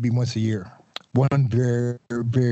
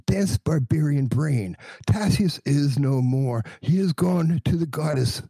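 exasperated rant; 6 semitones higher than usual. Acted. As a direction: spell it out in high exasperation. Bureaucrat exasperated tirade.

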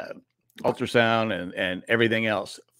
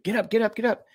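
urgent wake-up call; 11 semitones higher than usual. Retold or imitated. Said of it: "my wife ... said".

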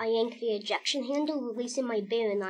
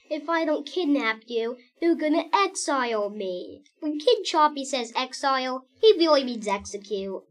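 tearful; 3 semitones higher, 7 dB louder than usual. Acted. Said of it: "Quackers explained".

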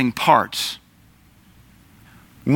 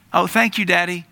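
put-on high, sweet child voice thanking daddy; a lightly voiced child answering daddy; child's thank you; 5 semitones higher than usual. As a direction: chirp it like a small child. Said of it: "I do the same thing with my kids".

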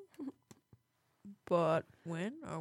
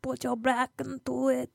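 Arnold impression; 3 semitones higher, 10 dB quieter than usual. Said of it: "I thought Arnold came out".

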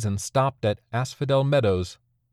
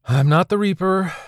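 louder and higher, cutting him off; firm correction; 9 semitones higher, 5 dB louder than usual. Acted. Carrie correcting Sean sharply, louder and higher. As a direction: set him straight at once.

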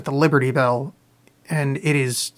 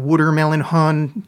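lightly put-on Philadelphian accent; a hint of Philadelphian in the vowels. Shown as a demonstration. Streamer demonstrating local slang to listeners, Philadelphian accent. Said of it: "if you say it in the Philadelphian accent".

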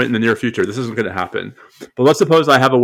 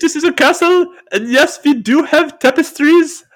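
gruff Scottish lord. Retold or imitated. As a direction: play the proud castle lord. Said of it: "if you are a Scottish laird".

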